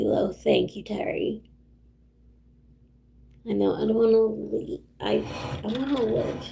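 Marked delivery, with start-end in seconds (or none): 3.5-6.5 on the edge of crying, real; teary-eyed. Real, not acted. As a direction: voice tight with held-back tears. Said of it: "getting teary-eyed over here".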